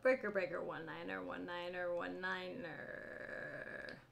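radio call through a handheld; over walkie talkie. Real, not acted. Trying radio before the video.

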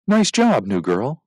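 bright approving cheer to a teammate. Acted. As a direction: welcome the new girl with praise. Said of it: "Devin said approvingly".

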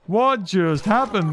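"What just happened" drawn out slowly; slow emphatic repeat. Real, not acted. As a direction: stretch each word of "What just happened".

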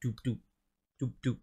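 soft, muted doop doop like a drum heartbeat; heartbeat imitation. Reacting to the song's drumming, mimicking a soft heartbeat. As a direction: tap out a quiet heartbeat with your voice. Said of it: "just imitating that heartbeat".

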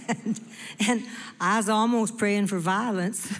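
said through a laugh. Real, not acted. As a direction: chuckle through the confession. Joking confession to the crowd.

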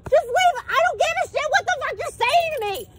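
high, loud, fed-up yelling at the officer; yelling at a police officer to leave her alone during a picnic; real yelling. Real, not acted. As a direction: shout him off, exasperated. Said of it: "I'm so loud".

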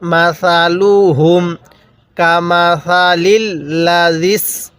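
slow, drawn-out tajweed chanting; teacher reciting slowly for students to copy; Quran recitation. Shown as a demonstration. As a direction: recite each syllable long and even. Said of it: "আমি যেভাবে উচ্চারণ করব".

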